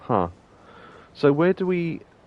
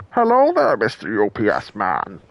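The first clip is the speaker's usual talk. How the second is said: Cartman impression; 4 dB louder than usual. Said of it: "Perhaps I can make a delivery".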